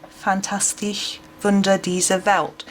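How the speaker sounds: German accent, title read carefully. Shown as a demonstration. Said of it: "You all laugh at my, um, German accent".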